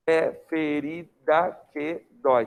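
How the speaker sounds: slow, measured poetic syllables; poetic scansion. Shown as a demonstration. Teacher showing poetic syllable count, slow measured scansion. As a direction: sound out "É ferida que dói" slowly, in spaced poetic beats. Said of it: "Em sílaba poética, olha como é que você vai fazer".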